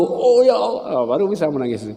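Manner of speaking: lightly acted weeping sigh; mock tearful sigh. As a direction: draw it out like tears come at last. Finally able to cry.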